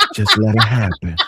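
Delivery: mock whispering. Retelling what another speaker said: imitating someone whispering. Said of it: "'cause you whispered".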